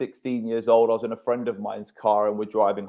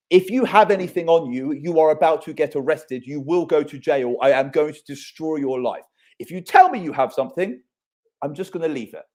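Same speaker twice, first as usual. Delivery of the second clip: put-on a firm officer giving the kid a last chance; raised, urgent warning to a teenager in a car; stern cop warning; 3 semitones higher than usual. Policeman warning teen in retold story.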